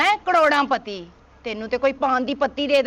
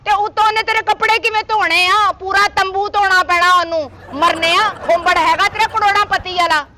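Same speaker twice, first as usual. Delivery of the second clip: scolding; 3 dB louder than usual. Acted. Matchmaker scolding the greedy suitor.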